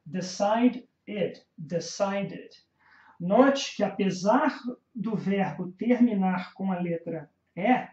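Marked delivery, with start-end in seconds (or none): 0.0-2.5 slow linked demo. Shown as a demonstration. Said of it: "O verbo decide".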